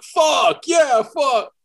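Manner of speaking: loud, high mock yell; retold yelling. Host imitating his friend yelling on a live audio chat, mock yell. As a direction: yell it like someone who thinks nobody can hear. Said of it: "just kept yelling".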